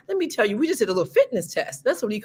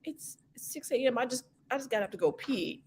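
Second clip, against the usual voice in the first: groggy complaint; 10 dB quieter than usual. Retold or imitated. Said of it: "And I'm like".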